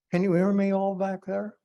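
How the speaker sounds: a speaker at a podium calling out to the back rows. Real, not acted. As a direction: check the back rows can hear you. Speaker checking hall can hear.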